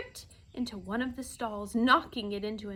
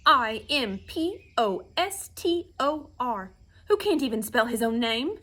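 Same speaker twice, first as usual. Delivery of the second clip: very excited shout; 4 semitones higher, 8 dB louder than usual. A narrator's reading. Bee denouncing the humbug as an impostor, excited shouting. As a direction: shout the accusation, then hammer out each letter. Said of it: "shouted the bee very excitedly".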